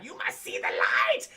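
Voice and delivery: put-on villain locking the kid in the light room; low villain voice. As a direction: growl it like a doom prophecy.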